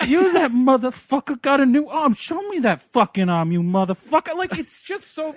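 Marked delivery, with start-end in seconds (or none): 0.1-4.3 loud, hammed-up barfly heckle; mock belligerent bar drunk picking a fight; antagonizing. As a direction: goad them aggressively, raised voice. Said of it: "like, antagonizing".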